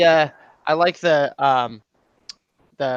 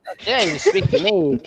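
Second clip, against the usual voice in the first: Orson Welles impression; 6 semitones higher than usual. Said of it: "Orson Welles".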